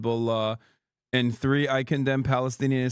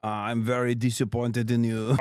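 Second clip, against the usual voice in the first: mock French Zionist; 3 semitones lower than usual. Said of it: "They're like".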